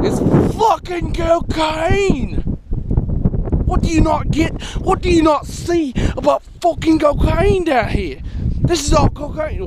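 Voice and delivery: exasperated, put-on Australian accent. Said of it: "Why am I talking in an Australian accent".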